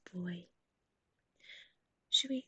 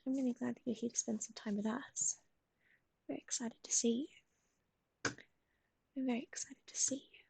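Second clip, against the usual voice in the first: whisper; faster than usual. Acted. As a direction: whisper it gently, like soothing a pet. Whispers to dog on stream.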